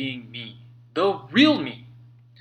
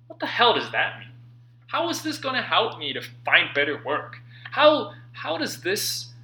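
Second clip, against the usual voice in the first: baffled scoffing; 2 semitones higher than usual. Retold or imitated. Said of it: "I'd wonder".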